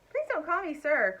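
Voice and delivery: crying out. Acted. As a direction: cry out the plea. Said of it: "cried Stuart".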